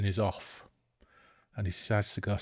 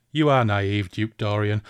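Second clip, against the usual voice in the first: mocking villain; 5 dB louder than usual. Villain mocks captive.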